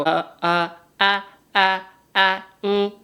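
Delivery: short rising moan sounds; gentle practised moans; soft sex moans. Shown as a demonstration. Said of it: "I do have something".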